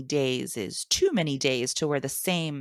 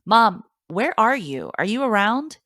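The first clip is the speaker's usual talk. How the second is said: put-on child calling out; 6 semitones higher, 7 dB louder than usual. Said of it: "The subtext of that conversation was".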